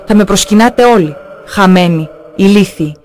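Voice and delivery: a hint of a threatening demon speaking through a woman; lightly voiced possessed woman, slowing at the end; wild menacing male voice. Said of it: "με μια άγρια απειλητική ανδρική φωνή". (ελαφριά υπόδειση άγριας απειλητικής ανδρικής φωνής)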